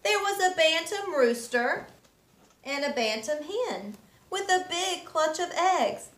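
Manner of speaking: gentle rhythmic read-aloud; storybook reading. A narrator's reading. Teacher reading a picture book to children, gentle storytelling. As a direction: read the rhymes to little ones.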